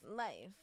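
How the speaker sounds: "Life" drawn out, mimicking; mock the dragged ending on "Life"; dragged last word. Friend mimicking host's last word, stretched "Life". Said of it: "It's the last word".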